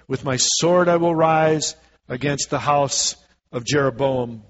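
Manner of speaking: measured, declaiming Bible reading; scripture reading. Acted. Preacher reads Amos to the church, declaiming. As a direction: read the prophecy aloud to the congregation.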